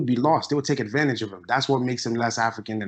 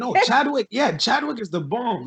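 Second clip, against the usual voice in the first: eager defence; 10 semitones higher than usual. Real, not acted. Host rushes to defend Chadwick after the Chad remark, eager and high. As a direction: jump in to insist he's great. Quickly defends the actor he likes.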